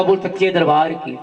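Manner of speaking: low refrain closing the passage; devotional refrain. Real, not acted. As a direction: drop the pitch for the call to devotees. Preacher's refrain cueing the congregation.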